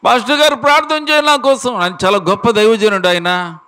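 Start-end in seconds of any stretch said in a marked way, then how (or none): 0.1-1.8 high, thin squeak of a woman who has lost her voice; squeaky voiceless woman. Retold or imitated. Woman with throat cancer begging the pastor, high strained squeak. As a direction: imitate a sick woman straining to speak. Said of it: "కీచు స్వరంతో అరుస్తూ ఉందట".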